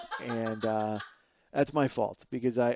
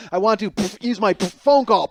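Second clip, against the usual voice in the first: higher, louder plea broken by puffs; beaten captive pleading; 5 semitones higher, 7 dB louder than usual. Acted. Comedian acting himself beaten in an embassy basement, pained plea. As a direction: puff the demand out between blows.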